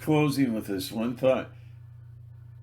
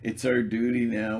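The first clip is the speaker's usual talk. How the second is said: apologetic excuse-making, mildly acted; a touch of flustered apology; imitated apology. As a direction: mimic someone lightly pleading duty. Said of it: "very apologetic".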